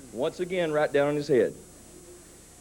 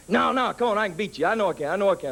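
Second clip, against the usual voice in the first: put-on pestering kid; 6 semitones higher than usual. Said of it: "kid brother begging".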